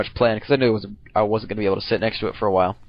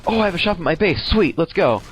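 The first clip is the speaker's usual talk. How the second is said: building excited realisation; 3 semitones higher than usual. Retold or imitated. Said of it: "I'm like".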